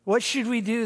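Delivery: high, frantic panicking sailors; mock panic, voice jumping up; exasperated sailors shouting at Jonah. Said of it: "you can see they're exasperated".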